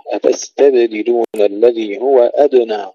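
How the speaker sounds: أتستبدلون with whistling س and echoed ب; hissed sin, bounced ba. Shown as a demonstration. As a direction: recite أتستبدلون and أدنى, bouncing ب and د. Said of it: "السين ساكنة مع الهمس والصفير".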